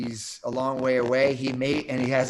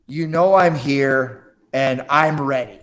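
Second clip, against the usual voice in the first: aggressive challenge; 7 dB louder, slower than usual. Retold or imitated. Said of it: "much more aggressive call".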